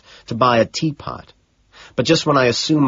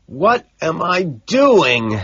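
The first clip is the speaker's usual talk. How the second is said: crying out; 7 semitones higher, 3 dB louder, much slower than usual. Acted. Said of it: "I cry out".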